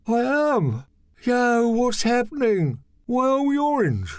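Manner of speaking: high, shocked and alarmed; panicked surprise. Acted. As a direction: panic at your reflection. Michel panicking at mirror.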